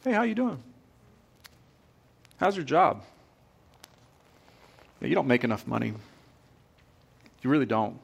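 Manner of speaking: enemy whispering about your job. Pretend. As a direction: lure them with friendly talk. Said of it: "it starts with just a whisper".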